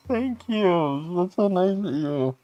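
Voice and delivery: high, tender little thanks; giggle, then thank them in a small high voice; touched gratitude. Real, not acted. Streamer to a kind donor, touched gratitude.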